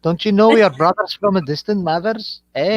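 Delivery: attempted Scouse, drifting into Scottish; rough go at a Scouse accent; put-on Scouse accent. Shown as a demonstration. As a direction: imitate a Scouser, a bit Scottish. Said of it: "Anunnaki was doing my accent then".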